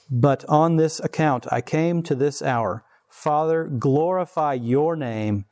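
solemn Bible reading to the church; scripture reading. Acted. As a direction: read it slowly, weighty and solemn. Reads scripture aloud.

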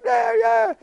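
very high cooing "yeah, yeah"; dad hushing a crying baby down the hall, very high; soothing a baby. Retold or imitated. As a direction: coo to the baby while jogging it.

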